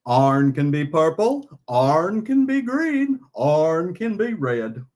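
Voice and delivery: slow mock-Texan bat, each item drawn out; Vlad's Texan accent. Bat puppet listing iron's colors, slow Texas accent. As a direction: list them in a slow put-on Texas twang. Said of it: "Russian bat becoming a Texan".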